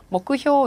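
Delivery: "먹구효" as mo-ku-hyoo, with a long final o; teacher's model reading of "먹구효", mokuhyō; Japanese on-reading. Shown as a demonstration. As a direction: read "먹구효" out clearly as mokuhyō. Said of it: "음독해서 먹구효 이렇게 읽어주시는".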